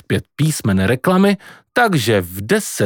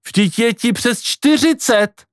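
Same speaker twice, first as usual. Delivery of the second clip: high, slow protest of disbelief; exclaiming; 11 semitones higher, slower than usual. Acted. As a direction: object in a stretched, raised voice. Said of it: "zvolal Pako". (nevěřícné, vysoké zvolání)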